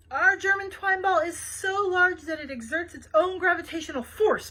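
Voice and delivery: loud, high mock German accent; boastful German accent. A narrator's reading. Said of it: "boasted the man".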